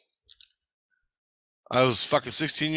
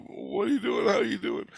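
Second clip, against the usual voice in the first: curious greeting; 10 semitones higher than usual. Retold or imitated. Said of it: "I go".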